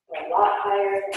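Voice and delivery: guided yoga instruction. Acted. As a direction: gently guide the class through poses. Guided yoga class cues.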